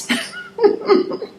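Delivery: shrieking laugh rising high then falling; high burst of laughter. Real, not acted. Laughing at grandson's remark.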